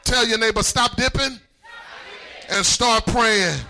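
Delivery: rally the congregation, stretching the key phrases; fervent sermon delivery; full-force preaching. Real, not acted.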